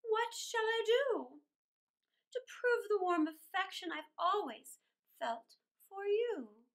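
lilting storybook reading; a children's storyteller reading verse; poem reading. A narrator's reading. Reads poem aloud.

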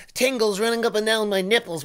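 a hint of swooning mimicry; mock dreamy fan. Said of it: "I have this feeling of".

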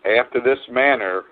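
slow, measured scripture reading with long pauses. Real, not acted. Preacher reads the Lord's Prayer to listeners with eyes closed, very slowly. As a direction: read it out slowly, phrase by phrase. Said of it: "I'm gonna read this very slowly".

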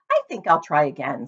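a pig ready to try again, cheerful; cheerfully. Acted. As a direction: bounce back with good spirit. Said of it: "said Wilbur cheerfully".

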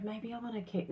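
sneaky mutter. Retold or imitated. Tempted to keep the gift.

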